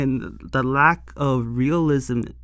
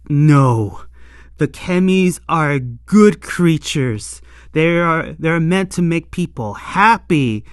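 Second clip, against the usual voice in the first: protective outburst; 6 dB louder than usual. Retold or imitated. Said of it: "snatches Hopper One and just like".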